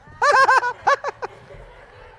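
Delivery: high loud laughter; delighted preacher's laugh; joyful laugh. Real, not acted. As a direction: burst out laughing.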